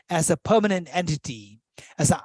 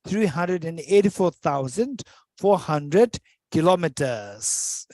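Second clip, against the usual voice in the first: slow, careful repeat; slower than usual. Shown as a demonstration. Teacher repeats the moon distance for students, slowly. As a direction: repeat the figure slowly, number by number. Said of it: "Let me repeat it".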